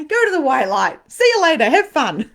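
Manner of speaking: high, loud, playful send-off; sassy retold dismissal; cheery banishing. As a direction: wave them off loudly and high. Sending ghosts away, retold.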